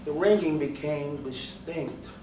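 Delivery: low, very soft narration; hushed dread. A narrator's reading. Narrator confiding the ringing in his ear, hushed dread. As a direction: let the words sink low and quiet.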